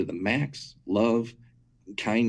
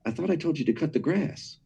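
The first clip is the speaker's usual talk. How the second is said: stern dad; 7 semitones higher than usual. Retold or imitated. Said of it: "he looks at me sternly".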